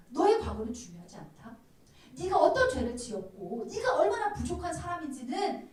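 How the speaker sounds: emphatic, earnest preacher voicing God; the Lord appealing. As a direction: press each phrase home with conviction. (주님의 간절한 마음을 힘주어)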